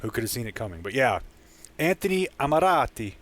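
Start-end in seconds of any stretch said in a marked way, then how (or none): 1.8-3.1 put-on Anthony Amarati said with a light Italian accent. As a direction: roll the name in an Italian accent. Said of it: "even though I just did an Italian accent".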